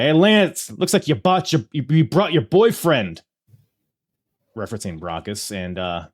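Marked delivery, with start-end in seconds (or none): 0.0-3.2 Taz. Retold or imitated. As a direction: taunt him like a tough guy. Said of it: "He's like".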